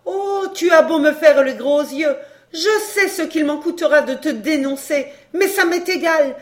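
loud, high-pitched, scornful fury; outraged tirade. A narrator's reading. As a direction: rage at the lover who duped you. Scorned mistress rages at her lover. (tirade furieuse de femme trahie)

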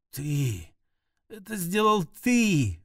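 медленное обвинение на выдохе, выше голосом; выдохнуть слова умирающей; выдохнула обвинение. A narrator's reading. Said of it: "выдохнула она". (умирающая выдыхает обвинение)

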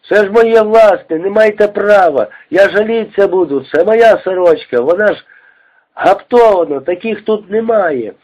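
high, pleading protest in Ukrainian; indignant Ukrainian woman. A narrator's reading. Ukrainian woman protests to the guards, high pleading. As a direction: defend your embroidered shirt, high and hurt.

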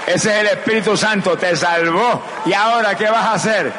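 high, declaiming preacher; fervent preaching. Real, not acted. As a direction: proclaim it high to the congregation.

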